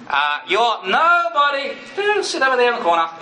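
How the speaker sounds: sneering accuser voice. Acted. Preacher voices the inner accuser belittling him, high and sneering. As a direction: brush him aside like a mocking bully. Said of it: "That's not Jesus' voice".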